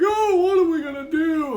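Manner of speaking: mock the sheep's helpless whining; mock crying sheep. Reviewer mocking the stuck sheep, high mock wail. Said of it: "the sheep are all crying".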